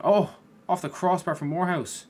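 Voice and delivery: sudden high loud cry of surprise; gasping shout as the shot hits the bar; shocked yell. Real, not acted. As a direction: jolt up and shout at the near miss.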